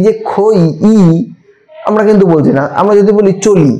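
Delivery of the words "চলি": চলি with its final i drawn out fully; full drawn i. Shown as a demonstration. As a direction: stretch the i of চলি. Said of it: "চলি লয়ের সাথে ইটা দেখো টেনে উচ্চারণ". (চলি শেষের ই টেনে)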